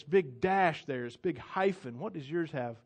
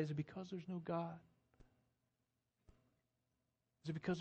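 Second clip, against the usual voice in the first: soft, pleading appeal; gentle plea; 5 dB quieter than usual. Acted. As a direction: coax him tenderly to seek God. Elijah pleading with Ahaziah.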